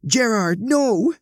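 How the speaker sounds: very high, loud warning cry; alarmed call. A narrator's reading. Veronica calling from outside to stop Gerard, alarmed and loud. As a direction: call out urgently to stop him. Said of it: "He heard Veronica call from outside".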